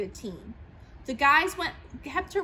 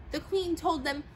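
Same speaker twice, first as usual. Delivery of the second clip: ordinary delivery, nothing marked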